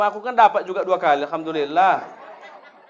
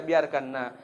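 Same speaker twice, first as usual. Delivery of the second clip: gentle mother; 6 semitones lower, 5 dB quieter, slower than usual. Retold or imitated. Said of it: "nggak begitu dia".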